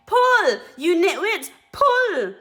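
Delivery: high, loud yelled command; shouting orders. Acted. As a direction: bark it at the helpers. Mugglewump ordering helpers.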